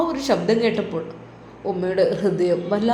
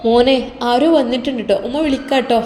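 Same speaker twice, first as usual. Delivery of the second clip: a mother's louder, eager call to her son; 5 dB louder than usual. Acted. Mother tells son on phone, louder call.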